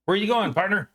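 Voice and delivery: lightly put-on Texas accent. Greeting a friend in a light Texas accent. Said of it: "Trying to get my Texas accent on".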